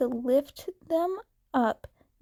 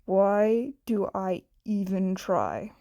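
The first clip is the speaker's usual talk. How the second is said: exasperated friend; 4 semitones lower than usual. Acted.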